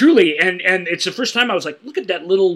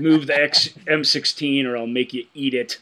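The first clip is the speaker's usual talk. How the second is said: put-on thick Canadian accent, lightly done; a hint of a heavy Canadian accent. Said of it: "in the thickest Canadian accent".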